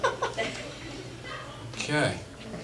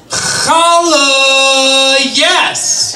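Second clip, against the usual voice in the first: high, loud rabbi voice trying to be hip; cool rabbi; 10 semitones higher, 5 dB louder, much slower than usual. Retold or imitated. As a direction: play a rabbi straining to sound cool. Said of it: "my impression of a rabbi trying to be cool".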